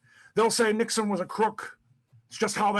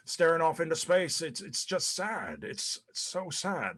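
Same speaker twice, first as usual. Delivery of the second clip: mocking wife's sad sigh; 5 dB quieter than usual. Husband imitating wife Pat moping sadly on phone, softly. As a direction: mimic her moping quietly. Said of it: "and you said".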